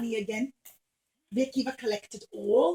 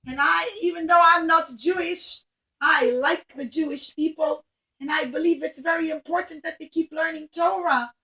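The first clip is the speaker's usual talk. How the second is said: grand rich lady; 3 semitones higher, 6 dB louder than usual. Acted. Rich Roman lady welcoming Rabbi Akiva, loud and gracious. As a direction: greet him like a generous grand lady.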